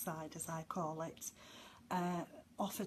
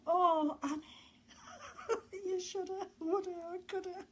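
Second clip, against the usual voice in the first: higher, half-laughing "you shoulda, woulda, coulda"; mock self-scolding; 10 semitones higher than usual. Presenter mock-scolding herself about past regrets, laughing. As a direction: tease yourself with a wobbly laugh.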